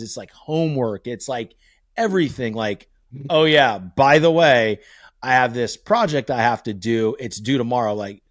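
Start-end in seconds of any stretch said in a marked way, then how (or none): 3.3-7.9 louder, slowed mock casual oh yeah; offhand kid. Son mentioning last-minute homework, mock breezy. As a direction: imitate the kid dropping the news breezily. Kid's offhand late news.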